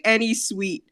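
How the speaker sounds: lightly attempted British accent; a touch of British English. Shown as a demonstration. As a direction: try a modest English accent. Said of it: "in a British accent".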